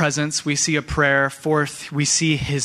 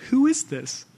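awed disbelief. Retold or imitated. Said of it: "picture your disciples right now".

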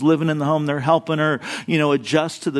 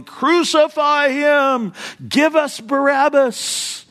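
angry mob; 9 semitones higher, slower than usual. Retold or imitated. Hostile crowd quoted.

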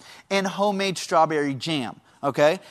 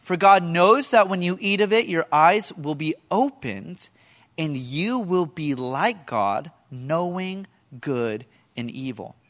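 tempting serpent. Acted. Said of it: "He says".

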